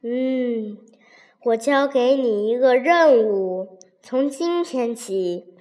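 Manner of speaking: mock imperial decree, understated; Jade Emperor voice. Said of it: "故意装出玉皇大帝的声音说".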